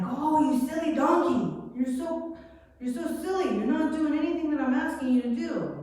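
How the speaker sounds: high, scolding voice at the donkey; mock-annoyed rider nagging his donkey; exasperated Balaam.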